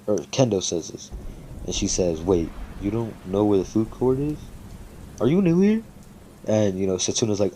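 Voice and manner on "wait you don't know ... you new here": puzzled question, jumping high at the end; retold confusion, pitch leaping up on the last question; baffled, acting out someone caught off guard; confused. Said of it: "are kinda confused by this".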